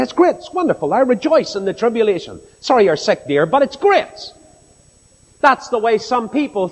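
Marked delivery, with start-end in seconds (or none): 0.0-4.3 mock cheerful. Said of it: "jump around the bed and say".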